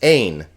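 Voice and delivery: "ein" with no H at the front; smooth breathing. Shown as a demonstration. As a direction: say "ein" starting straight on the vowel. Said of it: "Another smooth breathing mark is just ein".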